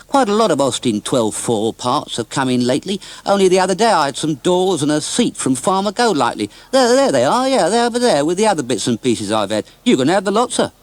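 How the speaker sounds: a cheerful scrap merchant rambling on. Acted.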